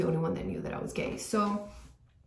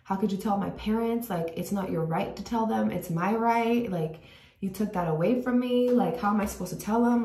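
retold anger at sister; 2 semitones higher than usual. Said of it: "I was cussing at her".

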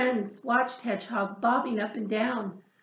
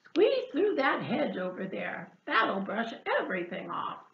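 pig voice. Acted. Pig continues.

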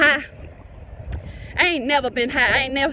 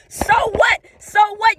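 higher and louder, so what; defiant shout; 5 semitones higher, 3 dB louder than usual. Real, not acted. Preacher defying the closed church facility, raised defiant shout. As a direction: toss it out boldly and defiantly.

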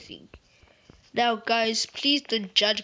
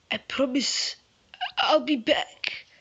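a hint of a gruff action hero; put-on voice; 3 semitones higher, slower than usual. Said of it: "I don't know why I did that voice".

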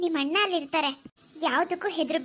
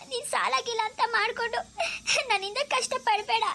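tearful; 3 semitones higher than usual. Acted. Sister begs brother, tearful.

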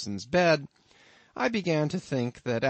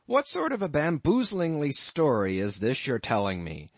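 towering rage; 4 semitones higher than usual. Acted. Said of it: "getting into a towering rage".

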